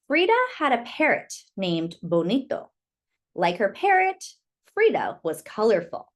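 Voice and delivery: gentle, lilting picture-book reading; reading to children. Acted. Teacher reading a picture book to children, gentle and lilting. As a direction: read it like storytime for little kids.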